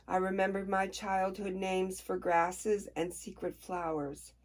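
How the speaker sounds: soft, even reading of the opening page; gentle read-aloud of a novel. Shown as a demonstration. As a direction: read the passage quietly, like a book opening. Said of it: "I will do it out loud".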